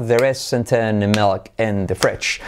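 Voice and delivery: very slow, evenly beaten phrase; slow linked-word rhythm for learners; rhythmic drill. Shown as a demonstration. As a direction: stretch it out on a steady teaching beat. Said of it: "Hacemos con ritmo".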